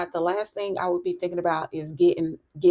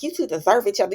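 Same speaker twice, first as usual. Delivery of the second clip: with attitude; 4 semitones higher, faster than usual. Retold or imitated. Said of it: "she just got an attitude".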